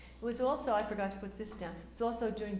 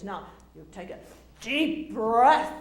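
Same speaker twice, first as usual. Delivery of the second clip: drama teacher instructing; 12 dB louder, slower than usual. Retold or imitated. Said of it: "he says".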